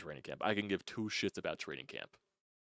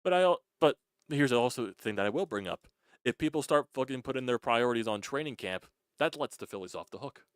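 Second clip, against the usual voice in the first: louder and higher, pushing hard; fired-up rant; 5 semitones higher, 7 dB louder than usual. Real, not acted. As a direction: get worked up and lean into it. Heated rant about priorities.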